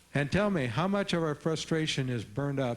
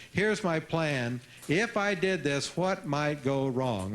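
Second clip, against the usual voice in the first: slow questioning; slower than usual. Retold or imitated. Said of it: "say to your friends".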